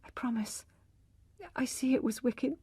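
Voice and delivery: wife whispering her promise; hushed promise. Acted. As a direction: give in, barely voiced.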